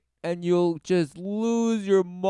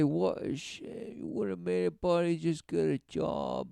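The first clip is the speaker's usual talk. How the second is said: mock sympathy; 6 dB quieter, faster than usual. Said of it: "You say".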